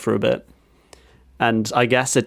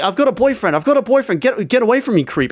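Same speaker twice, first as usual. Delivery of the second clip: much higher-pitched mock brush-off; imitated alarmed refusal; 9 semitones higher, faster than usual. Woman rebuffing a pushy stranger on the street, high mock protest. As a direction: fend off a pest, voice pitched right up.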